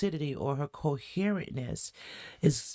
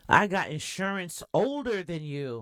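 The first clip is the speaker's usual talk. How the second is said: repeating the threat loud; 2 semitones higher than usual. Retold or imitated. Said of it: "She said".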